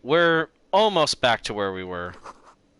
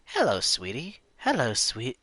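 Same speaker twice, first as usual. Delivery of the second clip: mock British accent; 2 semitones higher, 4 dB quieter than usual. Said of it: "I'm giving her, like, a British accent".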